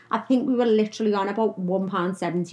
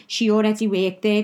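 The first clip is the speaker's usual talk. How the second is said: ordinary talk, nothing marked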